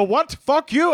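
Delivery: high indignant squawk, imitating an offended caller; mock screaming. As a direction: act out a scammer losing it. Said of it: "they'll start, like, screaming at you".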